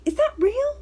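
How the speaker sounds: imitating a very high, loud squeal of disbelief; mock astonished question, pitched right up; shocked grandma. Grandma checking whether the tattoo is real, shocked. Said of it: "she was just so shocked".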